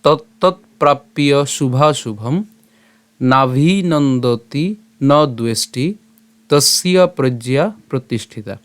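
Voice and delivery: slow, measured Sanskrit recitation; verse recitation. Shown as a demonstration. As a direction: recite with drawn-out syllables and pauses.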